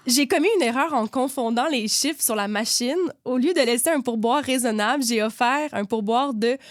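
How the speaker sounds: deliberate read-aloud, slowing for the punchline; storyteller drawing out the final reveal; story reading. A narrator's reading. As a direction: read the mishap out like a little tale.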